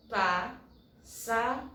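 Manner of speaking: "pássaro" split into pás, sa, ro with pauses; syllable by syllable. Shown as a demonstration. Teacher showing that the word has three syllables, syllable by syllable. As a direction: say "pássaro" slowly, one syllable at a time. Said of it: "Três sílabas".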